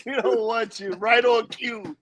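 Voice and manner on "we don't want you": stiff robotic delivery. Pretend. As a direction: talk like a machine. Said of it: "You talk like a robot".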